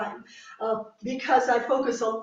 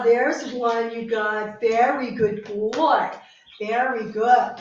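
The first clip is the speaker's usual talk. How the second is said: slow, louder, stretched praise for the dog; drawn-out praise; 6 dB louder, slower than usual. Real, not acted. Trainer rewarding her dog with slow, drawn-out praise. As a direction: draw out the praise so the dog feels it.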